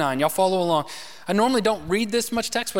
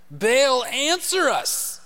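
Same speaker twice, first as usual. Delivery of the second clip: calling out to Baal; 7 semitones higher, much slower than usual. Acted.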